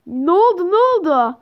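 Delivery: mildly alarmed, urgent repeated question. Acted. Parent hears doctor's bad news about the baby, alarmed. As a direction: ask as a worried parent, urgently.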